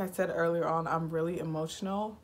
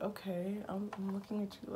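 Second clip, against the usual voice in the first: whispered aside; 3 semitones higher, 5 dB quieter than usual. Retold or imitated. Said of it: "I'm just like".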